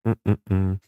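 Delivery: hums through a sniffly nose; sniffling while humming. Real, not acted. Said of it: "Pardon si je renifle".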